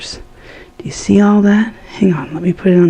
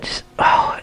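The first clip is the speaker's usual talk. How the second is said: 1 whisper; 6 dB quieter than usual. Real, not acted. Admiring thick sauce.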